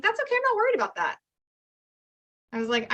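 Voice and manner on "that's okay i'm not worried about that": much higher, light and breezy; airy, high, unbothered reassurance. Retold or imitated. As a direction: brush it off sweetly, pitched way up. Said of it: "I'm like".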